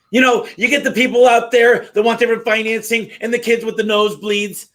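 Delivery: imitating Darius. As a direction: float it like a keynote speaker on stage. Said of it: "He's like".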